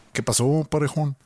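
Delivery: lightly imitated Juárez accent. Greeting the co-host with a line picked up from Narcos, in a Juárez accent. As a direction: put on a touch of a northern Mexican Juárez lilt. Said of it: "así hablan en Juárez".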